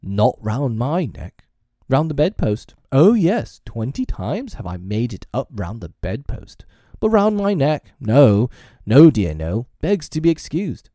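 loud, emphatic mock explanation; theatrical sarcasm, swooping high on key phrases; dangerously sarcastic. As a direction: spell it out with biting sarcasm. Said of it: "He became dangerously sarcastic".

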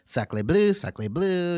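mock French exclamation. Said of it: "just be like".

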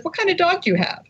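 high-voiced foreign tourist making small talk; tourist's question. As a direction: pitch the tourist way up, friendly and curious. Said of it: "He says".

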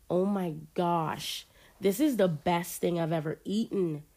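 talking with a full mouth. Acted. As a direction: exclaim through a mouthful. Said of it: "Sid exclaimed full mouth".

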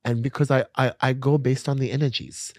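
imitated German accent. Retelling why the man hooked up, imitated German accent. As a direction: quote him haltingly in a German accent. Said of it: "in his German accent".

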